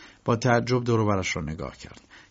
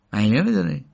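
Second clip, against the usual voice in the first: startled question; mild disbelief; surprised; 5 dB louder than usual. A narrator's reading. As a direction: ask it in astonishment. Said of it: "مستخدم با تعجب گفت".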